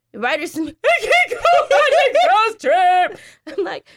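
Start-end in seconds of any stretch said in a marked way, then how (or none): 0.5-3.2 put-on high, slow, laughing whine of a disappointed kid; laughing mock whine. Mom quoting her daughter's sulky complaint through laughter, mock whine. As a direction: play the sulky kid while cracking up.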